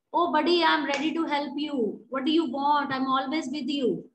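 teacher acting a casual friend offering help, warmly; friendly casual tone. Shown as a demonstration. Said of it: "This tone will be better".

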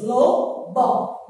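"Lobó" in two separate beats; syllable by syllable. Shown as a demonstration. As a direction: show both syllables of "Lobó", pausing between. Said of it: "Duas sílabas".

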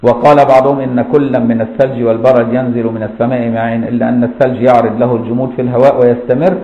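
measured recitation of a classical text; steady, formal reading-out voice; formal Arabic reading. Real, not acted. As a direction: read the scholarly text aloud with full case endings. Reads the classical text aloud.

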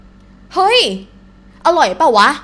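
offhand buddy question, hey pitched high; very casual. Shown as a demonstration. Teacher playing a friend asking about food, casual. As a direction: ask it loosely like among friends. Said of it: "in a very casual way".

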